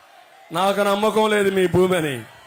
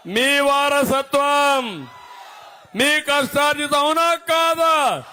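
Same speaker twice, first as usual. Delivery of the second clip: rising rally cry; 2 semitones higher, slower than usual. Real, not acted. Speaker demanding a yes or no from the crowd, rising cry. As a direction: build to a demand for the crowd's answer.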